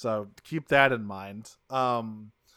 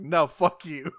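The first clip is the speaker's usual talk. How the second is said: higher, louder, fast defiant outburst; hammed-up angry Bulkhead; 5 semitones higher, 6 dB louder, faster than usual. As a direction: fire it back in proud defiance.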